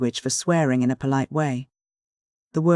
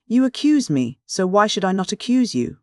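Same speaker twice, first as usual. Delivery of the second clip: much higher, louder retort; sharp retort; 6 semitones higher, 3 dB louder than usual. A narrator's reading. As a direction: fling the accusation back. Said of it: "retorted Random".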